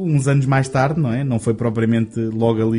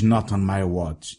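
slow movie trailer line; 6 semitones lower, 3 dB quieter, much slower than usual. Retold or imitated. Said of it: "em que alguém diz".

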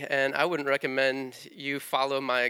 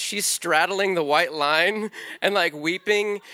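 excited; 2 semitones higher, 6 dB louder, slower than usual. Real, not acted. Excited retelling of the drive.

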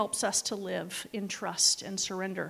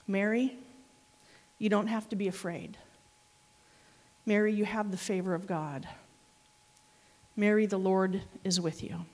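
calm Mary with each name; gentle reassurance; 3 semitones lower than usual. Retold or imitated. Quoting Gabriel comforting Mary.

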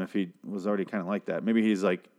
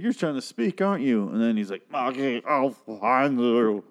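taunting Negan; 2 semitones higher than usual. Retold or imitated.

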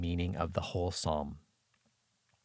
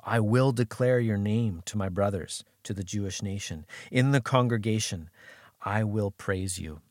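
firm, raised-voice declaration of praise; determined; 3 semitones higher, 4 dB louder than usual. Acted. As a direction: read it out with resolve, emphatically. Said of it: "word of incredible determination".

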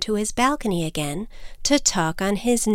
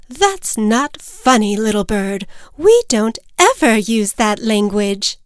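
scolding mother; 5 dB louder than usual. Acted. Mother bird scolds Little Bird for rude language, sternly. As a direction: reprimand a child with loud stressed words.

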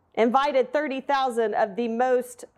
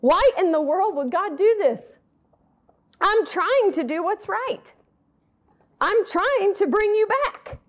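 David pleading with God; 6 semitones higher, 3 dB louder than usual. Retold or imitated. David crying out to God at the party, distraught. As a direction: let it climb higher with each plea. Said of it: "he's probably saying".

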